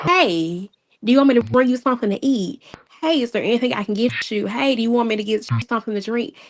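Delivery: quick, bright, eager to help; eager caring offers. Retold or imitated. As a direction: rattle off kind offers fast. Quoting her own caring offers.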